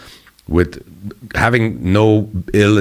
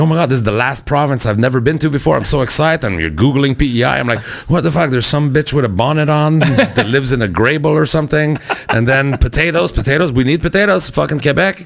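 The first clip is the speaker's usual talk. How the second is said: a higher-pitched mock gush of tourist excitement; excited tourist; 6 semitones higher than usual. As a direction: play up giddy excitement about the trip. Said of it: "And I was like".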